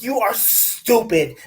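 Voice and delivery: slow, punchy mock yell; slow exasperated yelling; mock yell at phone. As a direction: yell it at the screen, word by word. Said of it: "I was yelling at my phone".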